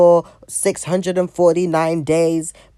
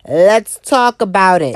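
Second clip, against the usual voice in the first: louder and slower; 6 dB louder than usual. Acted. Vlogger kicking off the rant, louder and slower. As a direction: punch it out louder and slower the second time. Repeats catchphrase, second louder.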